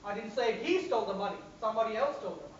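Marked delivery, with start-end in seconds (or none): 0.1-1.4 "he" stressed. Shown as a demonstration. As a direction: hit "he" in "I didn't say he stole the money". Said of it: "I'm going to stress on each word".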